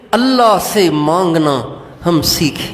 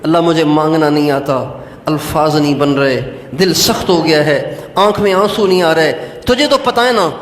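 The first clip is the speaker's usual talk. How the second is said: humble prayer; 2 semitones lower than usual. Shown as a demonstration. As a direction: model a humble plea to God. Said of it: "اور اللہ سے کہو".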